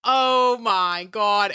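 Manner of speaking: drawn-out, slow exclamation; drawn-out amazement. Real, not acted. Telling friends how funny the man was, drawn-out exclamation. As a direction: stretch each word in amazement.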